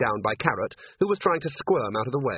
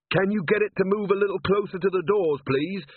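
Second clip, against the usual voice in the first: Carrot calling down; 8 semitones higher than usual. A narrator's reading. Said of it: "said a voice from the darkness".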